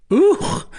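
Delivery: high, loud yelp; a sudden high-pitched roar of complaint. A narrator's reading. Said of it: "roared a Norman".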